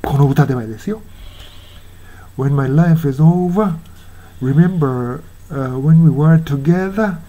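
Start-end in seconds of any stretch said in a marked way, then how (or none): 2.4-7.2 "over" and "together" ending in "ah", slowly; non-rhotic endings. Shown as a demonstration. Teacher showing how the singer pronounces the line, slow, r-less endings. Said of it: "というように発音しますね".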